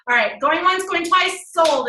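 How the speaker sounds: auctioneer closing the sale; going once, going twice call. Shown as a demonstration. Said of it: "auctioneer style".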